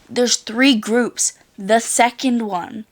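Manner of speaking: slow, emphatic insistence; retold annoyance. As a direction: spell it out slowly, exasperated. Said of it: "I was getting mad at him".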